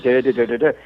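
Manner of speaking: a hint of mock Muppet Swedish babble; Swedish Chef imitation. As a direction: lightly hum the Swedish Chef gibberish. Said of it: "the Swedish Chef".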